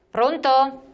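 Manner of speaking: calling out loud. Real, not acted. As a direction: call out to reach the caller. Caller not heard, calls again. (chiamando ad alta voce)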